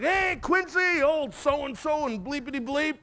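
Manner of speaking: put-on high-pitched kid's taunting call; retold yell down at the school bully; mock yelling. Boys in a tree fort taunt the bully below, mock yelling. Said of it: "we start yelling at Quincy".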